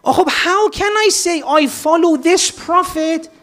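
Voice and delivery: real tears catching in the voice; choked up. Real, not acted. Preacher, moved by the Prophet's love, asks the congregation with a crying voice.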